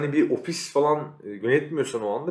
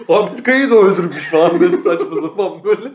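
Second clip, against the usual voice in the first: laughing; 7 semitones higher, 9 dB louder than usual. Real, not acted. Laughing at absurd joke.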